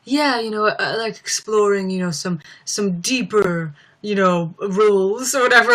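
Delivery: lightly voiced hesitant actor; a hint of a pensive movie star; Johnny Depp. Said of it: "come out as Johnny Depp and he's like".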